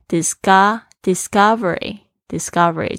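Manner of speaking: slow drill of discovery with the CO syllable lifted; stress on CO. Shown as a demonstration. Teacher drills the stress for students, lifting the CO syllable. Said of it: "重音是在这个".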